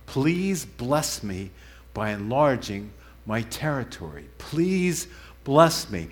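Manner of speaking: slow, drawn-out pleading; measured, earnest entreaty; urgent plea. Retold or imitated. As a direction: stretch out the plea with deliberate weight. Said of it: "express urgency".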